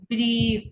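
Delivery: "ব্রিফ" with a long ee. Shown as a demonstration. Teacher repeating the ie example, long "ই". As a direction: hold the vowel in "ব্রিফ". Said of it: "ই, ই এর মতো".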